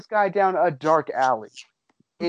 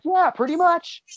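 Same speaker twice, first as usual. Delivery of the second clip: mock deadpan reply; 10 semitones higher than usual. Omar deadpans to Indy.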